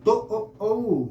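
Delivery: "ओ, ओ" stretched very slowly; drawn-out vowel demo. Shown as a demonstration. Teacher slowly demonstrates the doubled vowel for the class. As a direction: hold each "ओ" long and clear. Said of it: "जब आप ऊ का उच्चारण दो बार करते हैं".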